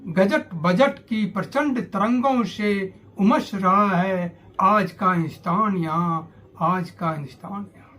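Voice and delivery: measured verse reading in phrases; poem recitation. Acted. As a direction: recite it as verse, falling away on the refrain.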